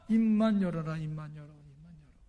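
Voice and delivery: retold begging, fading away softly; mother's tearful plea. Mother begging her mute son, fading acted plea. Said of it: "하염없이 울면서 이 아들한테 이렇게 이야기하는".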